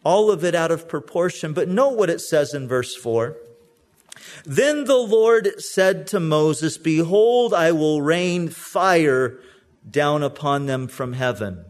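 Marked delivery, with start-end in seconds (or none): 4.5-11.6 mock thundering God. Shown as a demonstration. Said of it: "Doesn't say that".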